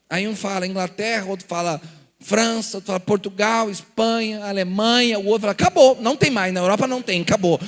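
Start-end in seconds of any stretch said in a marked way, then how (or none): 5.5-7.6 a cell member protesting that Europe has run out; excited protest. Retold or imitated. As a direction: protest that every country is taken. Group member protests countries used up.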